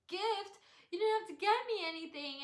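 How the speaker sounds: high, loud disbelief; retold high-pitched surprise; surprised protest. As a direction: protest the gift, amazed. Reenacts surprise at a gift.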